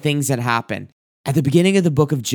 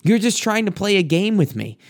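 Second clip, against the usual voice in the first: pitched-up, lightly acted anguished complaint; Job pouring out his heart; 5 semitones higher than usual. Job accusing God of playing a game, lightly voiced higher plea. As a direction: let Job's hurt rise as he accuses God, understated. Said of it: "Job pouring out his heart to God".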